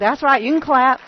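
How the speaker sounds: encouraging applause. Real, not acted. Speaker urging applause from congregation.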